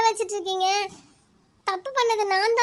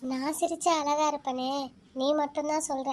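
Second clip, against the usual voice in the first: lower, softer confiding voice; a lonely girl confiding her sorrow to the moon; soft inner talk; 4 semitones lower, 4 dB quieter than usual. Acted. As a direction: talk gently to the moon in your head. Girl talks softly to the moon.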